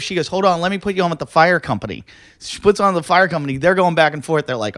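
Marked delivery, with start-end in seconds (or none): 0.3-2.0 higher operator voice, quicker; brisk operator. Retold or imitated. Dispatcher transferring the caller again, quick higher voice. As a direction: rattle it off like a dispatcher.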